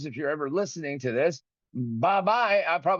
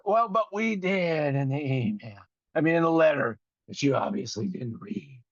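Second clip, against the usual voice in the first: smug customer rep. Retold or imitated. Voicing the bank rep's reply.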